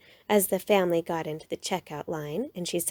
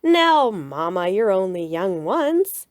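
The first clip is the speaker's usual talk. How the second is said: smiling Papa; 4 dB louder, slower than usual. A narrator's reading. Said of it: "Papa Bear smiled and said".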